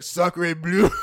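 loud French exclamation; French accent. Retold or imitated. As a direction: burst out like a Frenchman. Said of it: "Mario pops up and he's like".

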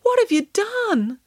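high, slow dismay; mournful, drawn-out question; sad. A narrator's reading. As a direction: lament it slowly, shaking your head. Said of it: "said Derek sadly, shaking his head".

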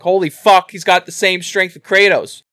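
high, loud excited outburst; retold amazement. Player stunned as the stranger sends Kratos flying, excited yell. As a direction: shout it out in amazement. Player reacting to boss punch.

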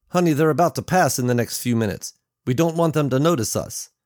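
a hint of an urgent father cautioning his child; worried father. Father warns his daughter in story.

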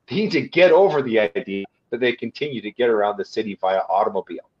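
quoting the Paris mayor in a light, hammed-up French accent; a hint of a mock French accent; bad French accent. Quoting Paris mayor Hidalgo to listeners, in a playful bad French accent. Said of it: "Pardon my, my bad French accent".

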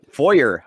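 "foyer" as FOY-er with a sounded r; pronunciation showcase. Shown as a demonstration. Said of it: "I always like to hear foyer".

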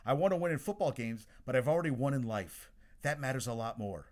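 loud, emphatic quoted press-conference statement; Hugh Freeze. Retold or imitated. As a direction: quote the coach forcefully, projecting. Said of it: "Hugh Freeze at his press conference said".

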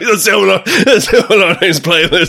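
lightly put-on Canadian accent; a hint of a Canadian accent, laughing. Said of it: "Best Canadian accent I've ever heard".

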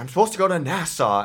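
high-pitched imitation of a panicking traveler; mock freak-out. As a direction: imitate her fretting about the flight. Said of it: "this girl next to me's freaking out".

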